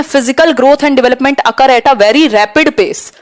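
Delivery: each word of the English option spelled out slowly; slow option read. Acted. Teacher reads answer option one to students, slow and careful. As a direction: read it out like dictation.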